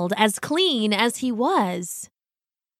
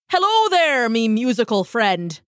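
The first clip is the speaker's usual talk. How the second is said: calling baker. Acted. The baker calls out warmly to Loosemore, hearty greeting. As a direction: hail him across the street. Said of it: "the baker called".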